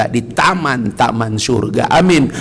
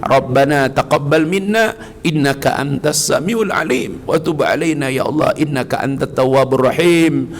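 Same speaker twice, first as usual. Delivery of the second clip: steady recited Arabic closing prayer; measured recitation of Arabic prayer. Real, not acted.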